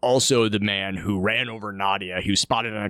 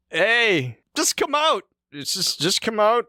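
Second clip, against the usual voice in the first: much higher, fake-friendly call; mock coaxing Kimmy; 9 semitones higher than usual. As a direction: coax them out in a sing-song lure. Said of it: "Kimmy's like".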